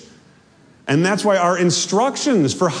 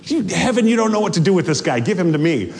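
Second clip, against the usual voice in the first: lightly voiced pushy demand, rattled off; demanding wife; much faster than usual. Ghost wife demanding her husband back from heaven, mildly demanding. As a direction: push the demand out quickly, mildly acted. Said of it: "demanding that Hilda return her husband".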